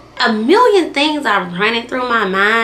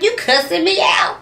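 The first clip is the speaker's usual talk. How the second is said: higher, disbelieving echo; incredulous question; 8 semitones higher than usual. Retold or imitated. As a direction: echo it back in disbelief, a touch of a laugh. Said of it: "I was like".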